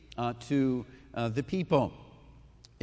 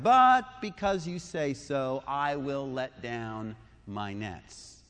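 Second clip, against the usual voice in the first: slow, grudging, sinking lower at the end; grudging Peter; 3 semitones lower, slower than usual. Retold or imitated. Peter obeying Jesus against his judgement, slow and grudging. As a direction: give in with a sigh in the voice. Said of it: "you can hear him saying".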